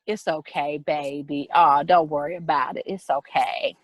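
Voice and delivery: low, comforting murmur imitating church people; soothing reassurance. Church people comforting a frightened child, soothing.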